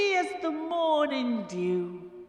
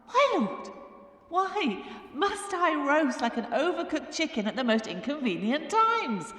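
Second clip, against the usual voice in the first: high-pitched plea to heaven; hammed-up, aggrieved lament; crying out; 6 semitones higher than usual. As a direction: wail the question up to God. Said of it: "And the women cried out".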